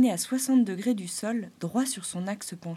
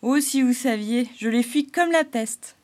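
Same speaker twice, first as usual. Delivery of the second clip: higher, louder clown voice; Arlequin confiding; 5 semitones higher, 9 dB louder than usual. Acted. Clown telling the animals he flees humans. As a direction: confide with feeling.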